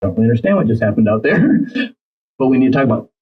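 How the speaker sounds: understated composure with a slight chuckle; calm voice. Shown as a demonstration. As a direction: approach gently, without any accusation. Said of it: "with this type of voice".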